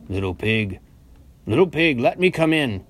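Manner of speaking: wolf calling in, rising in force; crying out. A narrator's reading. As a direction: demand entry as the storybook wolf. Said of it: "cried the wolf".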